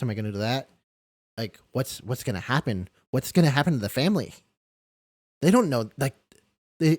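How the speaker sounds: spiral from worried to frantic; retold rising panic. Asking himself after a client's death, retold growing panic. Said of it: "I started panicking".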